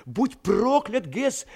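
slow curse. Acted. Sinkright curses Gess, slow and bitter.

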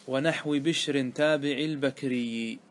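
slow recited line of poetry; verse recitation. Shown as a demonstration. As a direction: chant the line of the poem slowly. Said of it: "quoting the verse". (إلقاء بيت شعر ببطء)

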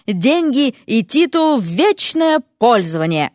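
emphatic sales-pitch proclamation; mock announcement. A narrator's reading. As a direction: announce it grandly, drawing out the key words. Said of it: "у меня объявление". (торжественно, как рекламное объявление)

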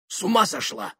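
very high exclamation at ordinary volume; shocked outburst. Acted. Married man hears second-wife offer, shocked outburst. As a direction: exclaim in high-pitched disbelief.

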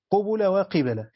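قبل as qubula, then وقبل as qebela, a bit slow; two readings repeated. Shown as a demonstration. Teacher repeating both readings for students, a bit slow. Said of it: "آه، قراءتان".

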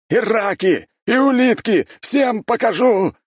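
high, loud and slow furious roar; roaring rage. A narrator's reading. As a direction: bellow a threat through the bars. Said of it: "ревел Константин".

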